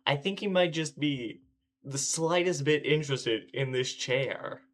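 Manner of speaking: sarcastic understatement. Real, not acted. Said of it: "sarcastic understatement".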